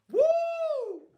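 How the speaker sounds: sudden very high cry of praise; ecstatic whoop. Acted. Preacher exulting mid-sermon, high whoop. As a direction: let out a fervent cry. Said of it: "preacher's cry".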